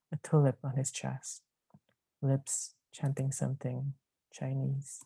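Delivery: deliberate recital with firm line openings; poem reading. Acted. Poet reading a last poem on being Chinese, poem reading. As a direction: recite the poem, letting each line settle.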